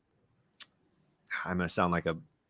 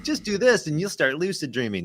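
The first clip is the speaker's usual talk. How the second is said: lightly parroting glib advice; mock breezy instruction; 5 semitones higher than usual. Mimicking lucid-dreaming guides who make it sound easy, mock breezy. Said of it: "They make it sound so simple".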